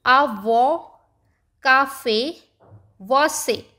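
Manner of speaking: आ वो, काफे, वो से with the final vowel drawn out clear and strong; stressed accented vowel. Shown as a demonstration. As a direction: repeat आ वो, काफे, वो से, leaning on each last syllable. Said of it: "उसी के ऊपर stress लग रहा है".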